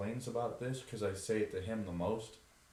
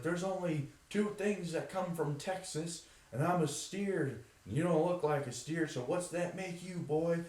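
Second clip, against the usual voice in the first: drill sergeant; 8 semitones higher than usual. Acted. Actor quoting a drill sergeant at a guest, higher. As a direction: bark it like a movie sergeant, but lightly.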